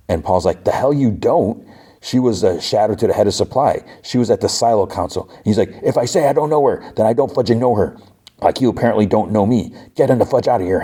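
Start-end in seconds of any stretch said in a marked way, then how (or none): 0.6-5.3 higher-pitched, acted disbelief; indignant contradiction. Paul disputes Knox's claim not to know Orla, indignant. 5.8-10.8 irate retort. Retold or imitated. Knox tells Paul and Hank to leave, irate. Retold quarrel, Knox throws them out.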